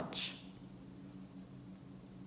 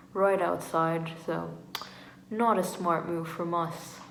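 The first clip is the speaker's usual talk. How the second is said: light, poor British accent; accidental British accent; slower than usual. Real, not acted. Telling how they found a missing friend, slipping into British accent. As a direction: slip into a rough British accent. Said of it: "I've incorporated a British accent".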